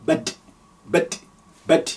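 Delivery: "bad" with a stopped, vowelless d; "bad" ending on a bare d; sukun on dal. Shown as a demonstration. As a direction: clip the final d of "bad" hard. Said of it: "we put sukun on the dal, that becomes".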